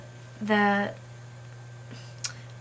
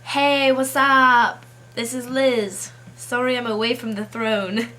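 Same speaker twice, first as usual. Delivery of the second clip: loud, drawn-out mock greeting as the Queen; hammed-up answering machine message; prank Queen's voicemail; 3 semitones higher, 7 dB louder than usual. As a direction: play a jokey Queen recording her voicemail. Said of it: "The message says".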